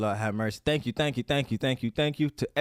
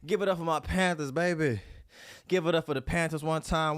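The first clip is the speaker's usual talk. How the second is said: hype announcer; 6 semitones higher than usual. Real, not acted. Hype announcer call to viewers.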